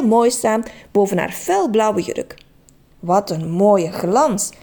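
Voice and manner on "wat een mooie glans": admiring. Acted. Trudy admires the coat.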